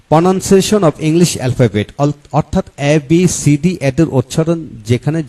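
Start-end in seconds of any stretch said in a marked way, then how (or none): 0.1-1.9 each English word drawn out slowly; slow careful title. Real, not acted. Presenter reading an English chapter title to viewers, slow and careful. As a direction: read the English heading slowly and deliberately.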